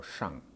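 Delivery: shang, ending in a nasal NG; ang sound. Shown as a demonstration. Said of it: "the ang sound".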